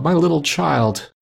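high, drawn-out lament; grieving cry. A narrator's reading. Father breaking down over his child, drawn-out grieving cry. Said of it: "He broke down all at once".

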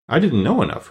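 lightly cheerful, a little lifted. Acted. Scarecrow answering the Tin Woodman, cheerfully. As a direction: shrug it off with a touch of cheer. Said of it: "replied the Scarecrow cheerfully".

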